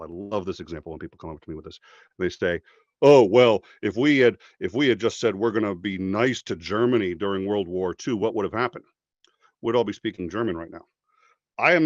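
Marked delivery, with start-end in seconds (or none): 3.0-8.8 loud, scoffing mock question; mocking the critics. Speaker mocks critics quizzing him about Germany, scoffing. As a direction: imitate a smug critic's challenge.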